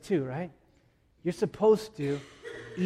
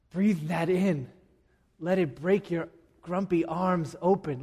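calm invitation; 3 semitones higher than usual. Real, not acted. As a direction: breathe out and let them rest in it. Inviting congregation to rest.

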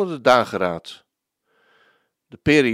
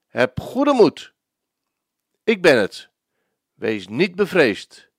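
gentle reassurance. Acted. Preacher repeats Jesus' comfort.

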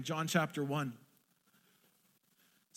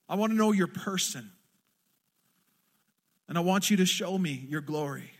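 fervent louder cry of longing; 4 dB louder than usual. Retold or imitated. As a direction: plead with God, pouring your heart out. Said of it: "the heart's cry of this worshiper".

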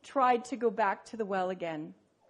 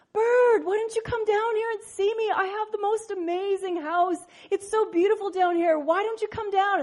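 high, eager little frog calling up; a small frog begging birds to visit; 7 semitones higher than usual. Acted.

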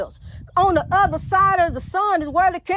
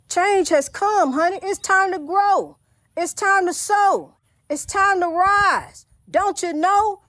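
rising sermon chant; preaching call; 3 semitones higher, slower than usual. Real, not acted. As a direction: lift the congregation, one phrase at a time. Preaching rally, slow and high.

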